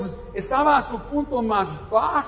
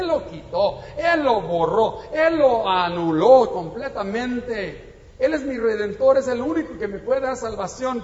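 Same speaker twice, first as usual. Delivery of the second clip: rising preaching fervour; 3 semitones higher, 4 dB louder than usual. Real, not acted. Preaching climax.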